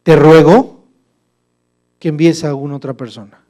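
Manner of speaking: loud begging, a different timbre; Moses insisting. Acted. Moses begging God to send another, loud plea. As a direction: press the plea hard. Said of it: "mire cómo le insistió Moisés".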